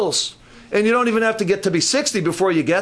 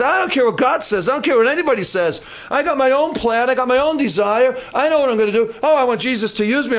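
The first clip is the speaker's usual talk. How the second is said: defiant Samson; 5 semitones higher than usual. Acted.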